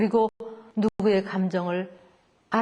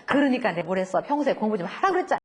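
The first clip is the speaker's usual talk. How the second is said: scolding mother; 2 semitones lower, faster than usual. Retold or imitated. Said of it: "그렇게 해버린단 말이에요".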